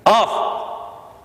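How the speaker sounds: a sharp high barked "Off!"; sharp command. Shown as a demonstration. Trainer commands the puppy off, sharp bark. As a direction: snap "Off!" at the dog. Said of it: "I'm gonna say the word off".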